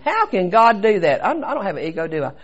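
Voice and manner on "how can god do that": slow, emphatic mock outrage; retold indignant rant. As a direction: act out challenging God, leaning on the words. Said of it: "I went on a rant at God".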